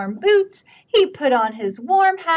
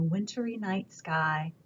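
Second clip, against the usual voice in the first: hushed storybook whisper; soft bedtime whisper; 4 semitones lower, 9 dB quieter than usual. A narrator's reading. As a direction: whisper so nobody wakes. Animals asleep, bedtime hush.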